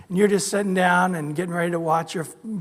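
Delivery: normal talking voice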